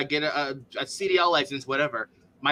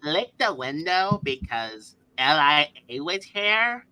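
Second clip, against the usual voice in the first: mock valley-girl voice with stretched-out words; 5 dB louder, slower than usual. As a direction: mimic her, slow and swooping. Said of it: "It sounds like a valley girl".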